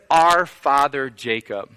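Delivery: slow, with "Our" leaned on; woman claiming shared ancestry, stress on "Our". Retold or imitated. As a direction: lean on "Our" in "Our father Jacob". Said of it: "entering into this idea of our father".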